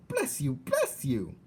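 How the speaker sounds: slow, repeated blessing; Mig's loud voice. Acted. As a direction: keep blessing him.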